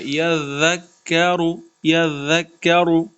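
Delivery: slow یذکرو with a soft th-like ذ; soft zaal demo. Shown as a demonstration. Teacher modelling یذکرو softly for the student. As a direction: glide gently over the ذ in یذکرو. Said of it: "ذال کو نرمی سے پڑھنا ہے".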